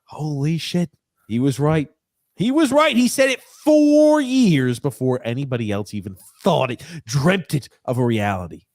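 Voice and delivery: rising amazed "holy shit, he was right"; mock fans shouting in amazement; imitating stunned fans. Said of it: "They're gonna be like".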